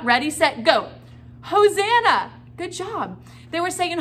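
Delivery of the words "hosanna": much higher, loud call; shouted together. Shown as a demonstration. Teacher shouting Hosanna with the kids, loud and high. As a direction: lead the kids in a big shout. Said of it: "Can you guys say the word Hosanna?".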